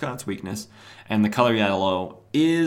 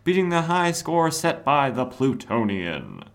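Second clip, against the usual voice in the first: higher, excited dive commentator read; announcer; 6 semitones higher than usual. Acted. Host reading a comic's announcer, hyped commentator voice. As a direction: call it like a sports announcer.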